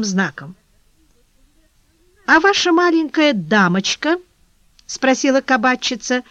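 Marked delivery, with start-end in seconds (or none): 2.3-4.2 put-on tenderness. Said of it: "стараясь придать своему голосу ... более нежный оттенок".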